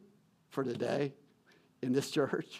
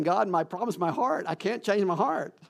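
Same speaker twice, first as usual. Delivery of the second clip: desperate plea; 5 semitones higher than usual. Retold or imitated. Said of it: "I told God that".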